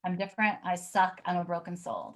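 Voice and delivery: reading the words while fighting tears; holding back tears. Real, not acted. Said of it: "'cause I'm trying not to cry".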